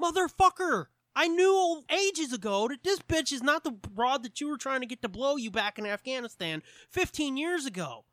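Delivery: high-pitched comic outrage, easing slightly; mock exasperated rant. Holmes setting Watson straight about the woman, mock exasperated.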